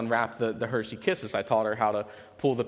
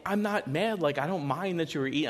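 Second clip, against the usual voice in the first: reassuring; 6 semitones higher than usual. Retold or imitated. Dad reassuring his daughter, higher and gentle. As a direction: tell her it's okay, gently. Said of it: "I told her, I'm like".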